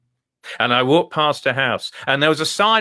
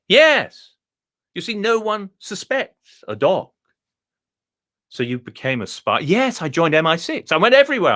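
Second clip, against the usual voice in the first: a high, plummy Etonian dog, pleased with itself; the dog boasts in a high, refined voice; posh dog voice; 4 semitones higher than usual. Acted. Telling the visitor about his schooling, high and plummy. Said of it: "speak like this".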